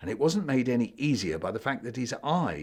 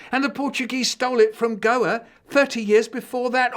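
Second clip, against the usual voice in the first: much higher, loud retort; shouting back; 13 semitones higher, 8 dB louder than usual. Acted. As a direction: fire it back at him. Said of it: "Hanuman shouted".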